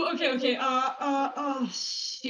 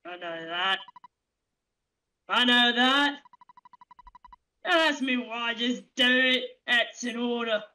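captain's gruff voice. Acted. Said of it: "I love doing that voice".

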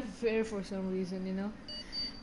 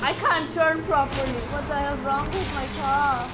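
frustrated; 3 semitones higher, 6 dB louder than usual. Real, not acted. Frustrated with car.

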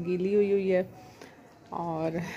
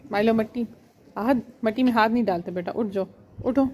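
quick, raised telling-off to a pet; gently scolding pet; 2 semitones higher, 3 dB louder, faster than usual. Real, not acted. Owner telling her cat to stop digging in the mud, raised and quick. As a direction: shoo the cat out of the dirt.

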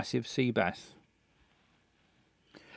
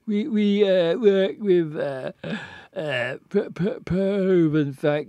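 put-on drunk voice; 2 semitones higher, slower than usual. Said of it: "reading him like a drunk man".

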